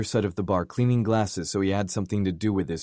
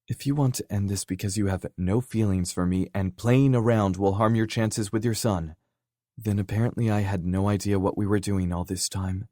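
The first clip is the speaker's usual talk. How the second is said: emotional pleading; 3 semitones higher than usual. Acted. Kenzie's emotional confession.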